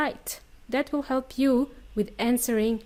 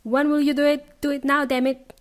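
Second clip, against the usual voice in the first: bossy nagging wife, demanding; mock nag about chores; 4 dB louder than usual. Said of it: "I'm going to sound like a nagging wife".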